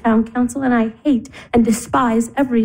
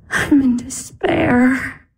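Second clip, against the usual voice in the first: crying; 3 semitones lower than usual. Acted. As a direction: voice heavy with tears, dragging the words. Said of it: "Don't cry".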